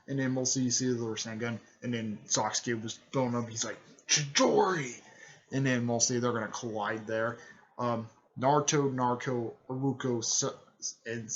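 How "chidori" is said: higher mock battle call; called-out attack name. Rival ninja building up his attack, mock battle call. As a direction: imitate a fighter naming his move.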